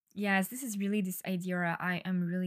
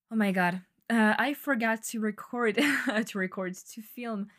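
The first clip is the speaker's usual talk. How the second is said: loud laughing oh-my-God at her own mistake; sudden realization; 2 semitones higher, 6 dB louder than usual. Real, not acted. Host realizes she forgot the Instagram video, surprised. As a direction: catch yourself with a laugh.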